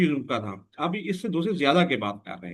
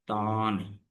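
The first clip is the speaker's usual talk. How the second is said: तान set apart, lower and drawn out; separate syllable; 5 semitones lower, 4 dB quieter, much slower than usual. Shown as a demonstration. Teacher counting syllables of Pakistan, तान said separately. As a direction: sound out तान as the last syllable. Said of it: "तो तीन syllable हो गए".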